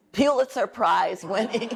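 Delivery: laughing through the words at herself. Real, not acted. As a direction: chuckle while admitting the letdown. Laughs at own ambition.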